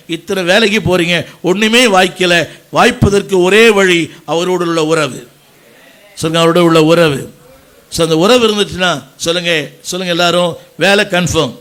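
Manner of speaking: loud, insistent preacher's delivery; emphatic preaching. Real, not acted. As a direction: drive the point home to the congregation. Preaches at full force.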